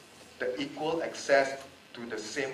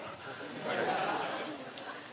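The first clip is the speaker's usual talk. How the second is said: embarrassed laugh; 10 semitones higher, 10 dB quieter than usual. Real, not acted. Laughs off her own emotion.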